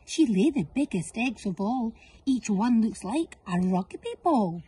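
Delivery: lightly voiced goose. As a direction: tell it like obvious news. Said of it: "The goose replied".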